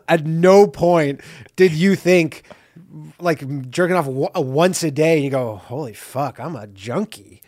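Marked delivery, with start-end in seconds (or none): 5.6-7.4 mock self-disgust. Acts mock horrified self-realization.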